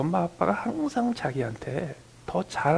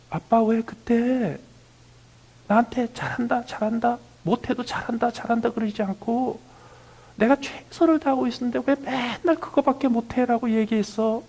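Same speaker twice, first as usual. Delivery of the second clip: imitating grown son; 8 semitones higher, 5 dB louder than usual. Grown son complains to his father about praise, higher and louder. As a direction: play a grown child whining at his dad. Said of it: "우리 애가 나한테 와서".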